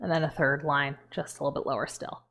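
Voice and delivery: talking with a thumb in the cheek; muffled, fingers hooked in mouth; muffled by hand in mouth. Real, not acted. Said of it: "it's hard to talk with my hand on my mouth".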